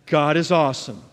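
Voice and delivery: loud, emphatic preacher's proclamation; firm, forceful call to join in; leading congregational declaration. Real, not acted. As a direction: lead the room in saying it boldly. Leads congregation to repeat after him.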